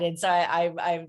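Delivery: stumbling over the first words; stuttering. Real, not acted. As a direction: stammer and restart, flustered. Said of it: "I'm kind of stuttering here".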